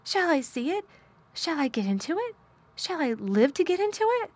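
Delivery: high, urgent hysterical questions; pleading in a frantic rush; hysterical eagerness. Acted. Colin begs Mary about the garden, hysterically eager.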